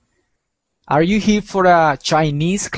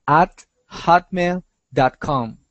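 slow clear repeat; slower than usual. Shown as a demonstration. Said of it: "¿ok?".

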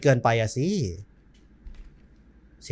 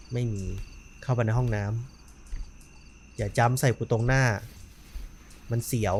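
much softer, low and careful; hushed tense voice; 5 semitones lower, 10 dB quieter than usual. Real, not acted. Player sneaking past the curtain, hushed and tense. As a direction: hold your breath and creep forward.

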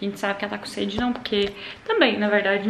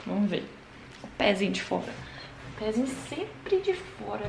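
usual speaking voice

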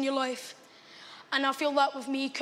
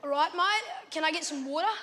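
put-on Australian accent. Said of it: "Let me hear your Australian accent".

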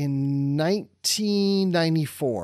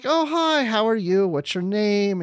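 high, chirpy retold hello; friendly greeting; 5 semitones higher than usual. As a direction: imitate a star greeting a fan, pitched up. Acting out the actress greeting a fan.

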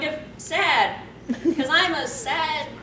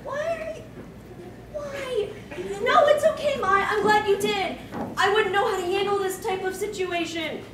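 pitched higher, a touch of tearfulness; mock tearful; 4 semitones higher than usual. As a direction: play a flustered, teary girl lightly. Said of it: "She starts to cry".

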